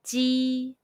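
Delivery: "Ji, yuan, juan" all held on a high level tone; "juan" on a high, flat first tone. Shown as a demonstration. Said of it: "high-pitched first tone all together".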